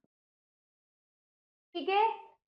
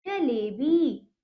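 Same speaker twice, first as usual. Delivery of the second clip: slow, drawn-out answer; 2 semitones lower, much slower than usual. Shown as a demonstration. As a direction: stretch जलेबी slowly. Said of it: "क्या लिखेंगे".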